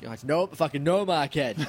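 put-on joking Boston accent. Answering a friend's Boston bit, Boston accent. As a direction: play a Boston local ribbing a pal. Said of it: "a Boston accent".

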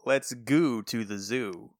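slow drawn-out goo, French Canadian accent. Shown as a demonstration. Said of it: "That sounds worse".

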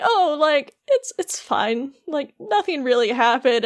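hesitant, politely downplaying it; polite reassurance. Cogsworth being polite about Beast's outburst, hesitant polite reassurance. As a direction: brush it off awkwardly to be polite. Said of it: "trying to be polite about it".

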